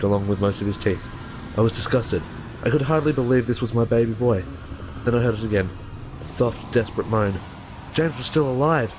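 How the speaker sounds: low, steady horror-story reading voice; spooky storyteller narration. Acted. Reads creepypasta aloud as narration.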